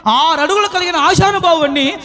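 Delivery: fervent sermon delivery; impassioned preaching. Acted. Preacher extolling Mary's desire to carry Jesus, fervent. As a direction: preach it with rising fervor.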